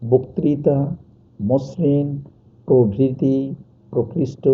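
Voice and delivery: বক্তৃতা, মসৃণ, প্রভৃতি, প্রকৃষ্ট each with a round o in the first syllable; o-like first vowel. Shown as a demonstration. Teacher recaps examples of the rule, first vowel pronounced o. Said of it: "ও এর মতো হবে".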